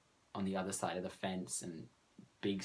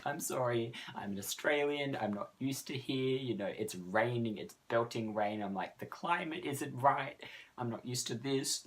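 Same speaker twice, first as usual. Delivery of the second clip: lightly hammed-up pitiful plea, higher; mock sob story; 4 semitones higher than usual. Australian girl begs the owners' pardon with a hammed-up sob story. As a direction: play the helpless foreigner, a touch pleading. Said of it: "full sob story".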